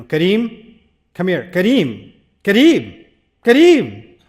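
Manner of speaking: name called, building from firm to a loud yell; exasperated parent calling a teenager, building to a shout. Retold or imitated. Parent calling teen who walks out.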